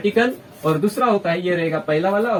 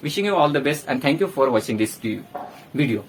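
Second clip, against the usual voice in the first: slow sign-off; 7 semitones lower, much slower than usual. Real, not acted. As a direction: close warmly and slowly. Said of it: "signing off". (धीमी, नरम विदाई)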